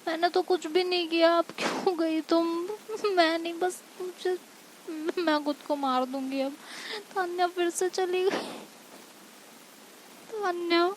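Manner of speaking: high-pitched, desperate pleading; hurt, panicky wail in words; acted distressed crying out. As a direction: plead as if left behind. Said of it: "और चिल्ला रही होती है".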